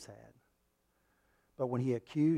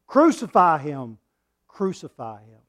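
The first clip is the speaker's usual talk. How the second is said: mob demand; 9 dB louder than usual. Acted. We as crowd demanding.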